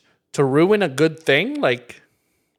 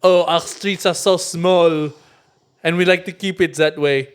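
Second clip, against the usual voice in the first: mock pretentious. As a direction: play a stuck-up local. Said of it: "they're pretentious about".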